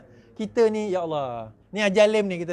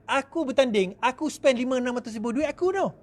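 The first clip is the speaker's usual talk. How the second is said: self-righteous candidate; 6 semitones higher than usual. Acted. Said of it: "dia anggap bahawa".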